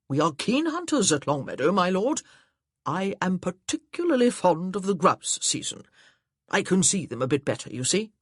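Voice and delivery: a jovial, booming suitor; cheerful gentleman. Acted. Beckington chatting hunting.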